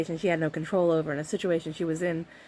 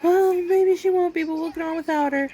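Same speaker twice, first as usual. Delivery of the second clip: cold brother; 11 semitones higher, 4 dB louder than usual. Retold or imitated. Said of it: "And he's like".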